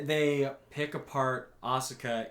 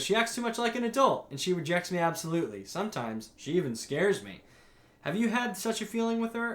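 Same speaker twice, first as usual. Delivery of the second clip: stepmother voice; 5 semitones higher than usual. Retold or imitated. Voicing stepmother complaining.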